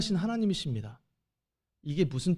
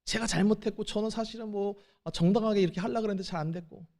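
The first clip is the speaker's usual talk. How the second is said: 빠르게 늘어놓는 변명 흉내; 허둥대며 자기 변호하듯 빠르게; 3 semitones higher, faster than usual. Retold or imitated. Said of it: "온갖 자기 변호를 하는 사람". (잘못을 들킨 사람이 빠르게 변명하는 흉내)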